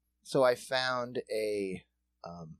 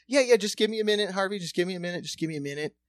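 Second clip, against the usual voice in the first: stalling; 7 semitones higher, 4 dB louder, faster than usual. Retold or imitated. Stalling impatient daughter.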